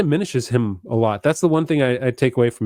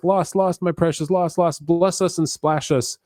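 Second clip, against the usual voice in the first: lightly voiced Gollum, higher and mournful; a hint of Gollum lamenting his loss, pitched up; 6 semitones higher than usual. Podcaster quoting Gollum's lament, a light raised Gollum voice. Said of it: "he does say things like".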